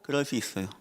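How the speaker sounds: ordinary delivery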